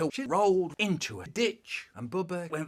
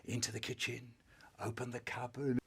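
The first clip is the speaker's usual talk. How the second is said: sneaky whisper; 4 semitones lower, 8 dB quieter than usual. Acted. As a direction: whisper the move. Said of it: "so really quiet".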